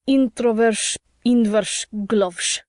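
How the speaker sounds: put-on slurred drunk, words mushed together; drunken slurring. A narrator's reading. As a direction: slur it like a drunk. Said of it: "sounded like".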